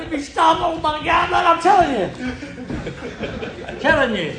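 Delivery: high-pitched, hammed-up panic, last words stretched out; retold terror. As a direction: act scared to death, wailing high on a drawn-out finish. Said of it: "we are scared to death".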